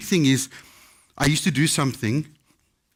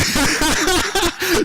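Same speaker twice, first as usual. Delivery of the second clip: high laughter; 3 dB louder than usual. Real, not acted. Laughing at own bank story.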